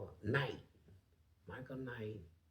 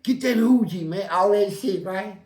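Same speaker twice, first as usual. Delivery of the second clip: high, loud mocking yell of the guards; retold yelling; 6 semitones higher, 15 dB louder than usual. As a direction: shout it like a guard egging on a fight. Retold guards egging on fight.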